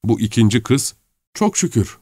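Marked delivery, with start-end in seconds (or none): 1.3-2.0 high-pitched thankful exclamation; relieved exclamation. A narrator's reading. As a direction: let out relief in a higher voice. Maid relieved at his late arrival. (rahatlamış, tiz sesle)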